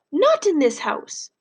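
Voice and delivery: grandma fearing for her family, high and slow; upset grandmother. Acted. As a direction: plead it slowly as a frightened old woman. Grandma's distressed lines in the novel.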